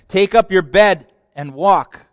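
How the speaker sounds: slow, loud command. Acted. Preacher voicing Jesus' order to the lame man, slow and loud.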